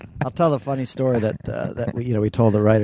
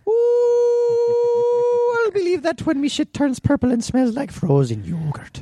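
put-on high squeaky Irish accent, much higher; over-the-top Irish accent, pitched way up; much slower than usual. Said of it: "Can you please do an Irish accent?".

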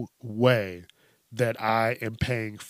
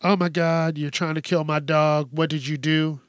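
freaking out; 4 semitones higher, 3 dB louder than usual. Retold or imitated. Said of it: "they start freaking out".

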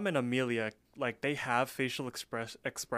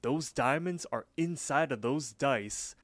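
Louis. Retold or imitated. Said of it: "Louis chimes in".

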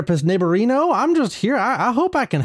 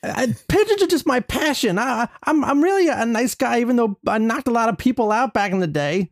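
Mike Tyson. Acted. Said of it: "Mike Tyson".

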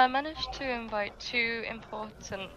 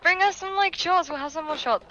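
shouting across the bar, high and loud; calling from far away; 10 semitones higher, 11 dB louder than usual. Acted. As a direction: call out over the noise, pitched way up. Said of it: "I'm gonna shout over to her".

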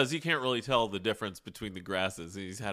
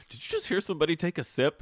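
enemy guard voice; 8 semitones higher, faster than usual. Retold or imitated. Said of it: "doing the voices of the guys".

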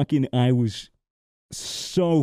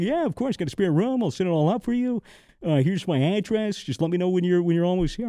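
eager host; 5 semitones higher than usual. Retold or imitated. Friend eagerly hosting.

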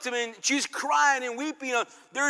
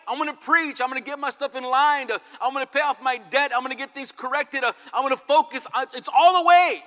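determined vow; 3 semitones higher, 5 dB louder than usual. Retold or imitated. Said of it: "you committed to say".

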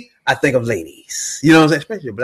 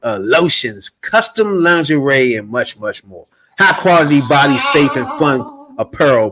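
sexy radio voice; slower than usual. Acted. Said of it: "sexy radio voice when I do this".

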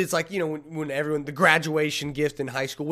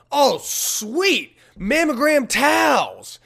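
delighted high shout, slowed; excited shout; 11 semitones higher, 7 dB louder, much slower than usual. Retold or imitated. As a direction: shout it out gleefully. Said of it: "my sister goes".

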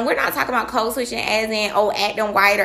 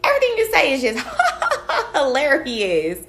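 laughing flattery, hammed up; fake gushing laughter; 4 semitones higher than usual. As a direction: gush through an exaggerated laugh. Mock gushing at boss's jokes.

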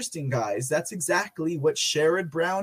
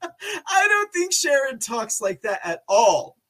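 higher voice on the edge of laughter; high amused squeak; 6 semitones higher than usual. Real, not acted. Host retracts his senator impression, high amused voice. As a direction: say it high, barely holding back laughter.

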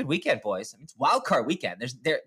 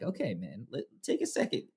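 softer, half-whispered, worn-out plea; weary aside to toddler; 7 dB quieter than usual. Retold or imitated. Dad quietly begging his bossy toddler for a break. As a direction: mutter it like a tired dad. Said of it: "I'm like".

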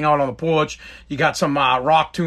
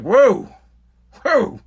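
high-pitched startled backing off; retold surprise at a scolding; taken aback; 7 semitones higher, 4 dB louder than usual. Host reacting to a guest's rebuke, taken aback.

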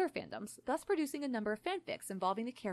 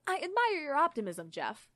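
earnest, higher and louder praise; 6 semitones higher, 6 dB louder than usual. A narrator's reading. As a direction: praise with wholehearted sincerity. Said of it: "he said earnestly".

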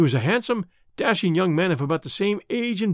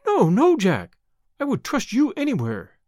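higher, pleading protest; earnest protest; 6 semitones higher than usual. A narrator's reading. Eddie insists to Jack she trusts him, earnest protest. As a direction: protest with a high, emphatic start.

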